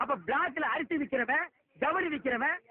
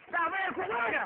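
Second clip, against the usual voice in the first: ordinary delivery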